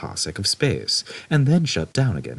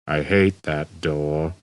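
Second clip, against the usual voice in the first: gloomy robot; 2 semitones lower, slower than usual. Acted. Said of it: "continued Marvin".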